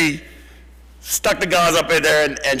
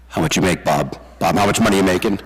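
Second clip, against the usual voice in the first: Doug's blunt question; 5 semitones lower than usual. Retold or imitated. Doug leans over to grandson Bob, asking in a lowered voice. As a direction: voice dropped much lower, a light impression of old Doug. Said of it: "always calling and saying".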